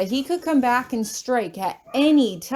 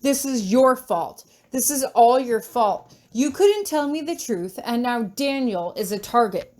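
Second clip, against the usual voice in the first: furious. Acted. Tori blaming him, furious.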